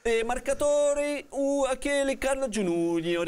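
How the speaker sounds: mock Italian accent, playful; hammed-up cod Italian. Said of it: "o castigo é falar em sotaque italiano".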